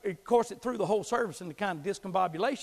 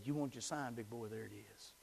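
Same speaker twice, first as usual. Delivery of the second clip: much softer, hushed voice of God, fading to a whisper; God's quiet voice; 7 semitones lower, 11 dB quieter than usual. Retold or imitated. God calling the boy to preach, hushed and fading to a whisper. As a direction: say it gently, as God speaking into a boy's heart. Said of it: "God slammed my heart and said".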